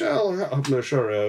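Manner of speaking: slow, slurred attempt at an Irish lilt; badly faked Irish accent; Irish-sounding accent. Policeman walking up to the driver, botched Irish accent. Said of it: "Was he Irish?".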